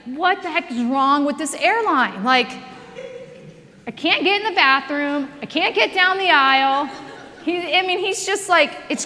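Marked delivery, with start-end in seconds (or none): 0.1-6.9 frustrated. Retold or imitated. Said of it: "becoming frustrated at this point".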